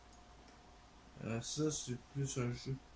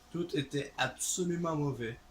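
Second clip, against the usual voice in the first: "absolument" punched for emphasis; stress on absolument; 3 semitones higher, 4 dB louder than usual. Real, not acted. Streamer hammering the verdict home, stress on "absolument". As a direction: lean hard on the word "absolument".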